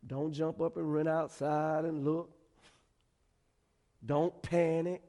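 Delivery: level, unhurried reassurance; calm voice. Acted. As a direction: settle someone who is panicking. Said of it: "I imagine him in a calm voice".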